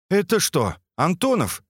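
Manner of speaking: surprised. Acted. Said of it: "удивился скат".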